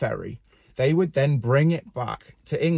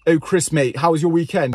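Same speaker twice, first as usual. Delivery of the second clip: higher, louder mock finance colleague; self-absorbed finance colleague; 4 semitones higher, 5 dB louder than usual. Finance colleague asking Chris about his weekend, mock hearty. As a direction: put on a hearty colleague's greeting. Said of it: "people in finance, they tend to only talk about themselves".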